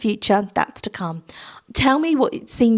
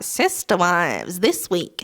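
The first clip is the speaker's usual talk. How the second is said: announcer voice; 3 semitones lower, much slower than usual. Pretend. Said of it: "it's gonna be like".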